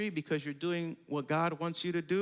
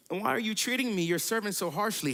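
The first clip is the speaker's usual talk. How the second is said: upset plea; 5 semitones higher, faster than usual. Acted. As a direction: pour out the complaint to God. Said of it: "Why have you done this to me".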